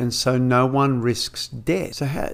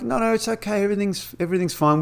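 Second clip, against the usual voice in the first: lightly raised carefree voice; breezy Wesley; 8 semitones higher, faster than usual. Retold or imitated. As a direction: brush off their worry like a clueless kid. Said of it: "He's like".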